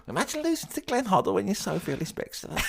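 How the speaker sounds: high-pitched, on the edge of laughter; helpless amusement. Real, not acted. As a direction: squeal it out while cracking up. Cracking up at the absurd defeat.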